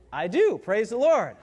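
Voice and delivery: loud, quick, eager "I do"; bride's eager yes. Retold or imitated. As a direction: blurt it out with relief. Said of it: "And she said".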